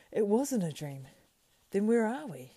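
loud, high, startled cry; crying aloud. A narrator's reading. Sam waking beside Frodo, crying out in alarm. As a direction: Sam bursts out, shocked awake. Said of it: "Sam cried aloud".

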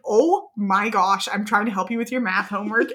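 mock exasperation of a parent helping; imitated exasperated dad. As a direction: stretch the exclamation, then hurry the complaint. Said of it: "And he was like".

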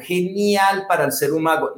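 GENIAL emphasized on its final AL; stressed syllable demo. Shown as a demonstration. Coach showing what he does, stressed syllable demo. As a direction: land firmly on the AL of GENIAL. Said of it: "mira lo que hago".

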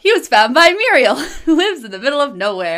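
loud, booming announcer voice; old radio announcer. Shown as a demonstration. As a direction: boom it out like a vintage TV intro. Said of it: "here, here goes nothing".

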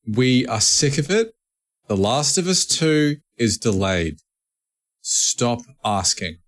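emphatic word-by-word scolding, slowing at the end; mock fed-up lecture. Host lecturing nagging fans about the delay, mock fed-up. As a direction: spell it out with mock impatience.

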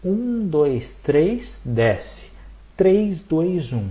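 slow, careful counting; slowly. Shown as a demonstration. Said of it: "Calma que eu vou falar devagar".

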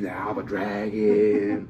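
slow, drawn-out deadpan in an odd put-on voice; dragon actor deadpan. Actor stays in character, calmly insisting he's a dragon. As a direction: say it slowly, fully believing you're the dragon. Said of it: "And he's just like".

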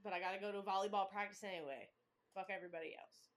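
low, soft, sullen imitation; mock moody girl, voice dropped and over it; grumpy teen. Co-host voicing a cranky daughter's morning mood, sullen. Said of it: "she was giving".

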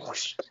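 imitated spray whoosh. Describing the super soak to co-hosts, an imitated whoosh. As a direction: make a quick rushing whoosh. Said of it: "he super soaked her".

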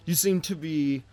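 a lightly voiced king, a little put out. King questioning a half-elf about the offer, mildly put out.

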